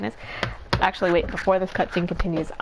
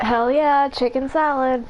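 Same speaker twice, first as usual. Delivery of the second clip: excited; 4 semitones higher, 3 dB louder than usual. Real, not acted. Lunch arrives, cheering.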